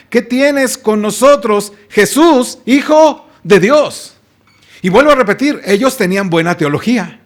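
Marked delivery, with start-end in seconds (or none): 0.1-4.2 mock demon shout. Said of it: "le gritan".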